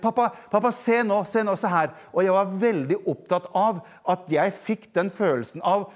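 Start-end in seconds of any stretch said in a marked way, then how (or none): 0.0-1.9 put-on child shouting for dad. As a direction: yell for dad to look, then ease off. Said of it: "jeg ropte alt jeg kunne". (barn som roper høyt, avtagende mot slutten)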